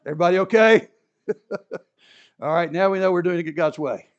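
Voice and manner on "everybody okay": mock concern. Joking check, laughing.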